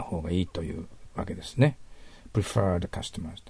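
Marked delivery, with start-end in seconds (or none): 2.3-3.4 slow repeat. Shown as a demonstration. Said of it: "teacher repeats phrase".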